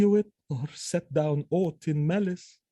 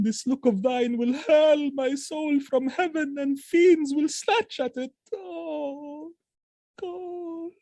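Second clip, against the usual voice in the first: higher, slow and tearful; grief-stricken; 6 semitones higher than usual. Acted. Othello weeping over dead Desdemona, crying. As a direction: mourn over her body.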